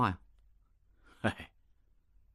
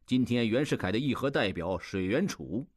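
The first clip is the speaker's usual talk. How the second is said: ordinary delivery, nothing marked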